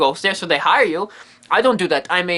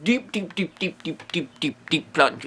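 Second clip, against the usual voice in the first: each deep softer and lower, fading away; fading to a hush; 4 semitones lower, 6 dB quieter, slower than usual. Shown as a demonstration. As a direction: let the voice sink with the plunge. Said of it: "Ghost hunting has taken a plunge".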